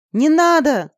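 high, loud desperate shout; girl screaming at the dragon to stop. A narrator's reading. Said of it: "закричала я".

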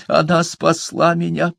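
high, tearful plea; sobbing. A narrator's reading. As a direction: defend her through tears. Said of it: "всхлипнула Иовин".

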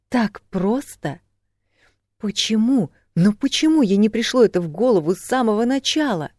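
high, excited disbelieving questions; astonished realisation. A narrator's reading. Woman struck by an idea, amazed. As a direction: marvel at the sudden insight. Her sudden flash of insight.

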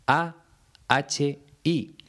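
each letter of "A H I" named clearly and apart; deliberate spelling of "A H I"; spelled letter by letter. Shown as a demonstration. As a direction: spell out "A H I" one letter at a time. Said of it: "me quiero detener en el adverbio de lugar ahí".

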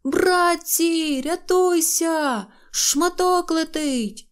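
high, slow panicked call; shouting. Acted. Neznayko warning the little ones, high mock shout. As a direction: yell the warning to everyone. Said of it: "і давай кричати".

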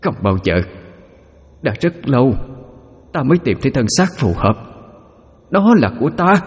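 put-on high, piercing Chinese-accented possessed voice; Chinese-accented ghost voice. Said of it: "giọng lơ lớ đặc trưng của người Hoa".

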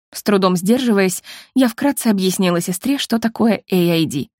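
ordinary delivery, nothing marked

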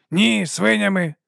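slow, patient correction. Acted. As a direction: explain it slowly as to a child. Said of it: "терпляче пояснив він".

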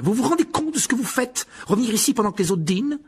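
high, scandalised scolding; indignant cry. Acted. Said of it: "s'écria Percy en se précipitant". (réprimande indignée, aiguë)

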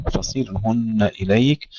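فصيرهن with a ص carrying i and a light ر; فصيرهن: fasirhunna, i on the ص, thin ر; kasra on sad. Shown as a demonstration. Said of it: "قرأ حمزة بكسر الصاد". (فصرهن بكسر الصاد وترقيق الراء)

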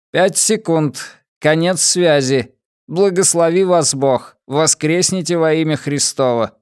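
high, even ship-computer announcement; metallic robot voice. Acted. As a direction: speak like a cold onboard computer. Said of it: "металлический голос". (металлический голос бортового компьютера)

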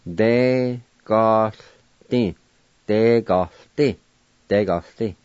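Degosti said whole with the TL silent; teacher repeating Degosti for practice; model pronunciation. Shown as a demonstration. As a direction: say Degosti smoothly, de-go-sti. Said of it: "pronounce the T L sound like this".

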